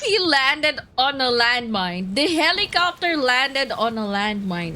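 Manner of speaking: excited disbelief. Real, not acted. Shouting in disbelief.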